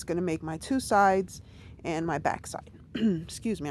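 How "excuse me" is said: breathless whispered apology; catching her breath. Real, not acted. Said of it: "I'm, like, out of breath here".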